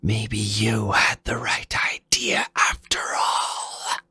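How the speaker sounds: eager, slightly hushed boss voice; villain taunt. Acted. Fafnir relishing a real challenge, lightly voiced. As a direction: savour the challenge ahead.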